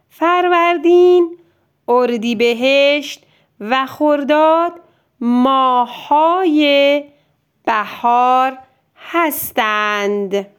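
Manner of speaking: clear, carefully paced teacher reading; dictation read-aloud. Shown as a demonstration. Teacher reading the next dictation line aloud, clearly. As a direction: read it out for the child to hear. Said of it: "جملهٔ بعد رو گوش کن".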